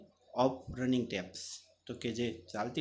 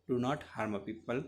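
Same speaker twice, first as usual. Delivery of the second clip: mechanical robot; much slower than usual. Shown as a demonstration. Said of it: "responded mechanically".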